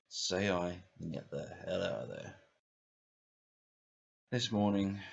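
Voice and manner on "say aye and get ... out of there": little devil. Acted. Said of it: "little devil on my right shoulder said".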